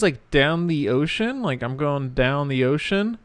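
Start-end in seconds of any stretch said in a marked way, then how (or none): 0.3-1.4 "down the ocean" said slowly, word by word; slow, separate words in "down the ocean"; careful citation. Shown as a demonstration. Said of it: "they use the phrase". 1.6-3.2 "down the ocean" slowly, with "down the" kept distinct; slow, clear "down the ocean"; unblended phrase. Shown as a demonstration. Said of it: "but it sounds like Danny Ocean".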